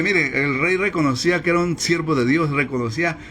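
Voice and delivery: measured, solemn Bible reading; preacher reading Daniel to the congregation, solemn; scripture reading. Acted. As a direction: read the passage like a preacher at the pulpit. Reads the scripture passage aloud.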